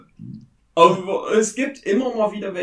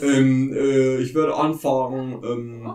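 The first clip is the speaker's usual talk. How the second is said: airport announcement; 5 dB louder than usual. Acted. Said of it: "Ich bin nur die Stimme".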